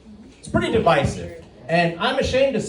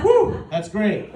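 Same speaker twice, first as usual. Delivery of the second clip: slow relieved whew, a touch louder; relieved sigh; 3 semitones higher, 4 dB louder, much slower than usual. Retold or imitated. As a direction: let the relief out slowly. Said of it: "And I'm like".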